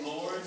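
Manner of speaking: "Lord" with a held, vibrating L; voiced consonant. Shown as a demonstration. Coach testing vibration with singers, voiced "Lord". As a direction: hum into the L of "Lord". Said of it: "Is voiced, it vibrates".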